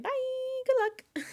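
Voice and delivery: high, loud mocking sing-song; taunting villain. Mastermind waving off the house guests, smug taunt.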